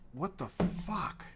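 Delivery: slow whispered disbelief. Real, not acted. Comic whisper over cold forgotten tea. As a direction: breathe it out in dismay.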